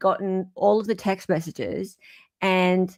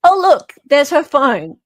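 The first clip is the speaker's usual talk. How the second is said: mock excitement; 7 semitones higher, 8 dB louder than usual. Mock excitement reading post.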